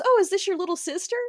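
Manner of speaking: put-on high, sugary old-lady question; flattering old woman. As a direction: ask it sweetly like a flattering stranger. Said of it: "she goes".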